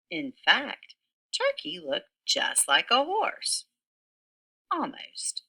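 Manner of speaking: lively read-aloud storytelling voice; story narration for children. A narrator's reading. Teacher reading a picture book to kindergarteners, animated narration. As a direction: tell the story to a room of little kids.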